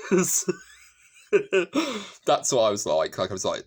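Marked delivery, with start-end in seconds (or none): 1.3-2.2 loud high laugh. Real, not acted. Laughing at her own outburst.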